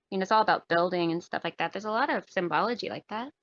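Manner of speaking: slightly hoarse, tired voice; losing voice. Real, not acted. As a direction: voice wearing out from talking. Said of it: "I'm losing my voice".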